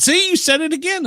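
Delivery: high-pitched mock accusation; retold gotcha. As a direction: pounce on the slip, imitating the family. Family's retold triumphant accusation.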